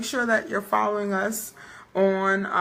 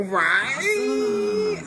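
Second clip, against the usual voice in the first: excited; 13 semitones higher than usual. Real, not acted. Excited about her editing.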